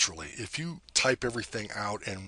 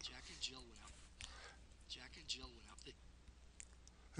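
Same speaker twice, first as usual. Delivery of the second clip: recorded playback; 3 semitones higher, 22 dB quieter, slower than usual. Shown as a demonstration. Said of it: "here's the recording of it".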